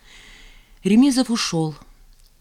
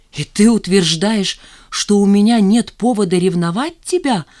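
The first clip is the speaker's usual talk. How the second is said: outraged disbelief, louder; indignant; 3 semitones higher, 6 dB louder than usual. A narrator's reading. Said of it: "возмутился он".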